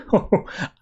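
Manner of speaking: short acted scornful laugh; mock chuckle. Rancor laughs off the aliens' plea for justice, mock scornful chuckle.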